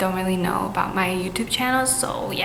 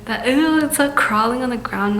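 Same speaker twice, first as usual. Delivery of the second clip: louder disgusted recoil; grossed out; 3 semitones higher, 5 dB louder than usual. Real, not acted. Reacting to crawling ghost.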